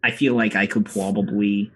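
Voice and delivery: lightly voiced polite officer; a hint of a formal, eager officer; Officer Mims voice. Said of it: "Honorary Officer Mims steps up and he goes".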